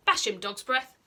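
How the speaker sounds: bossy order. Acted. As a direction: bark it at the sidekick. Snotlout orders sidekick.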